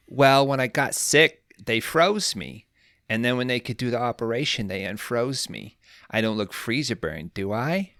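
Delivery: put-on a light New York accent, lifted at the start; playing a thawed-out mom with a New York accent. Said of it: "Doing her best New York accent here".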